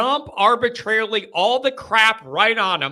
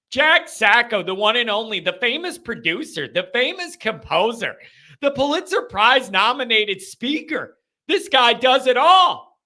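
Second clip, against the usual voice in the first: rising announcer build; hype introduction; 2 semitones higher than usual. Real, not acted. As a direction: build him up like a ring announcer. Hyping up a caller.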